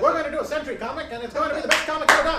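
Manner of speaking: put-on loud, high old-timey announcer; old newsreel narrator. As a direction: boom it like a vintage newsreel. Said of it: "when you do the old Tommy voice with that mustache".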